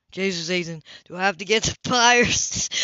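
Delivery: loud, impatient teasing demand; exasperated outburst. Acted. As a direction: push him, exasperated. Cam exasperated.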